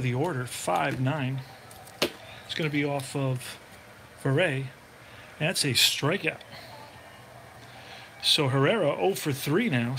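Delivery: steady broadcaster voice calling each pitch; play-by-play call. Acted. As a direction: call the game like a radio announcer. Sim baseball play-by-play calling.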